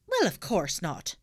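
slow, exasperated officer; stern constable; london policeman. Acted. Policeman answers.

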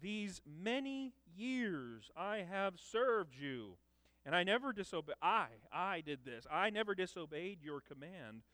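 put-on a touch of the aggrieved older son; lightly voiced resentful son; older son complaining. Older son to his father, mildly aggrieved. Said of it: "notice he says".

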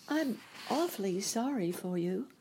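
put-on high, gentle little-girl sympathy; sympathetic. A narrator's reading. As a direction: offer pity in a lifted girlish voice. Dorothy pities the Scarecrow.

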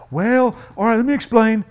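loud, high, rushing yada yada; hammed-up overeager advice-giver; frantic mock helper piling on tips; flustered helper. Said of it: "We're like".

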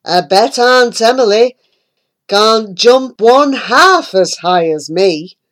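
a hint of a vain toad; lightly voiced boastful toad. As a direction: show off proudly. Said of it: "He said".

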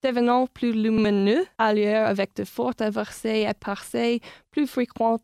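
weather forecast read in French. Shown as a demonstration. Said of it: "this is the weather in Galway in French".

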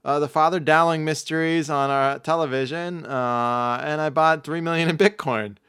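put-on high, loud old lady voice, taking her time; grandma. Grandma telling her grandson about her weekend, high grandma voice. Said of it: "Grandma, wh-, how'd you spend your weekend?".

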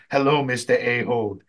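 measured, hushed skit character; geisha skit. Retold or imitated. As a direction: act out a mock geisha introduction, slowing at the end. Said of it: "gonna be like a geisha girl".

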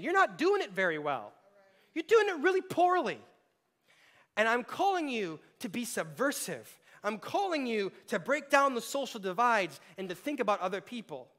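Paul scolding. Retold or imitated. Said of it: "And Paul is saying".

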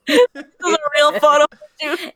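hysterical laugh. Real, not acted. Laughing at the photos.

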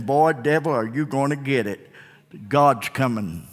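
low, soft warning to the devil; quiet taunt. Shown as a demonstration. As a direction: say it softly, almost under your breath. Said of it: "Devil, boy, you are gonna get it".

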